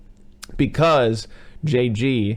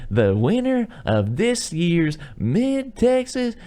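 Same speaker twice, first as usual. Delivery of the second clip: high, slow hammed-up announcer; mock contest announcer, drawn out; 10 semitones higher, much slower than usual. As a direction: boom it out like a festival MC. Announcer voice in retold film.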